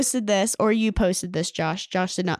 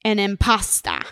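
put-on Jersey accent. Podcaster delivering a joke's punchline, Jersey accent. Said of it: "The Jersey accent".

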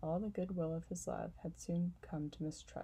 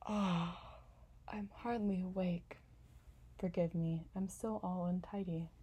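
sleepy yawning. Acted. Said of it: "she yawned and said".

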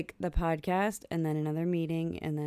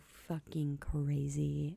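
whispering; 5 semitones lower, 11 dB quieter, much slower than usual. Real, not acted. Half-whispered aside about fans.

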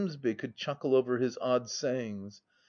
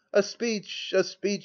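higher, jubilant chant; shouted call; 7 semitones higher, slower than usual. A narrator's reading. Drinking friends shouting for a speech. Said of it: "shouted we".

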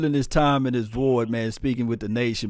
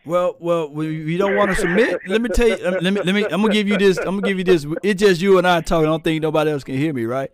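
fired-up pep talk; 6 semitones higher, 6 dB louder, faster than usual. Real, not acted. Hyping up the co-host.

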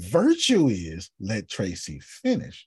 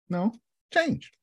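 whiny mock voice; 10 semitones higher than usual. Mocking whine, very high.

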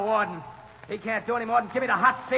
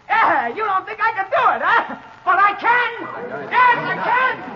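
rising higher and louder with each line; defiant shout; 7 semitones higher, 4 dB louder than usual. Acted. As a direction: hurl it at the court, building to a yell. Condemned man defiant in court.

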